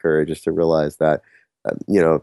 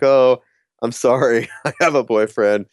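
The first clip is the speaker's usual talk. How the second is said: mock apologetic letdown; 4 semitones higher than usual. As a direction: imitate a sheepish, sorry rejection. Retells her awkward rejection.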